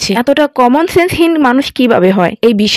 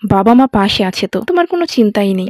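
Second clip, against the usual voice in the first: gently reassuring. Retold or imitated. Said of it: "কত সুন্দর করে বলল".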